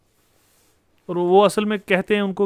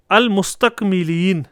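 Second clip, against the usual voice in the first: slow reading; 4 dB louder, much slower than usual. Shown as a demonstration. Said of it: "reads verse word slowly".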